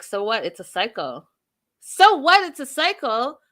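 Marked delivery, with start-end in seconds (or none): 1.8-3.4 incredulous. Real, not acted. Echoing Lydia's words to viewers, high loud outraged disbelief. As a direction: echo "So what? It's a cycle?" much higher and louder, rising in disbelief.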